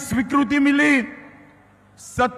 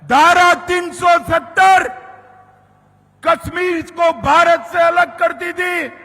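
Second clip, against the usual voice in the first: booming political rally speech; 4 semitones lower than usual. Real, not acted. Rally speech about Article 370.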